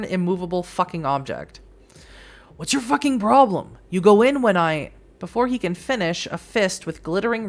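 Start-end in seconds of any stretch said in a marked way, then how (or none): 2.6-4.9 sharp, raised demand; angry confrontation. Acted. Blocked at the door, he snaps at the guy. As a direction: confront him, loud and high.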